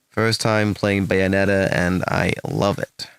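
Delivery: slow, put-on American accent. Shown as a demonstration. Streamer reading a post to show his American accent, slow American accent. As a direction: read it slowly as if American, accent carefully placed. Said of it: "can you do your best American accent".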